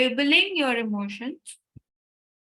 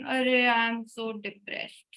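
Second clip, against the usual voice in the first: mock self-pity; slower than usual. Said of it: "You say".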